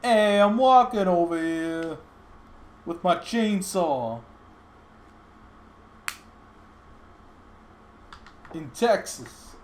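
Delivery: slow, mock Chihuahuan accent; playful Chihuahuan accent with drawn-out words. Streamer answers a request for a Chihuahuan accent, joking and drawn out. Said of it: "Chihuahuan accent".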